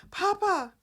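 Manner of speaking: put-on high, loud child's cry; high mock child call. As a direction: call out for Papa like a little boy. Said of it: "when Dominic woke up going".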